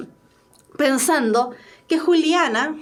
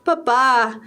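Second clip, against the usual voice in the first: drawn-out, mildly pleading word; a touch of begging, stretched out. Acted. Juliana begging her papa for approval, mildly pleading. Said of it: "suplicando a su papá".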